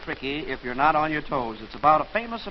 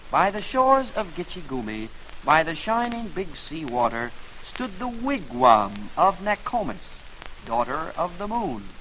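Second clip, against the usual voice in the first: poem recital. Shown as a demonstration. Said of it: "How did the poem go?".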